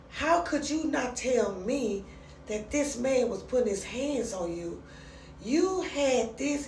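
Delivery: acted-out wounded father, stretching each word; hurt, reproachful father. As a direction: confront a daughter in aching disbelief. Father confronting his abused daughter.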